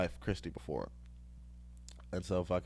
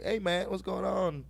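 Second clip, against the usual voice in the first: failed imitation; 10 semitones higher than usual. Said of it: "Or he doesn't sound like that".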